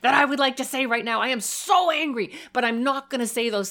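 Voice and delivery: loud, raw vent of anger with no insults; demo yelling. Shown as a demonstration. Parent yelling at a misbehaving child, loud but controlled. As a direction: let the anger out full volume but keep words safe. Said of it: "So you can be yelling".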